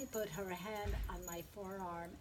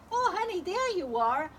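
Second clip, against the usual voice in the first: excited retelling; 10 semitones higher, 10 dB louder than usual. Retold or imitated. Retold reunion with Lowell.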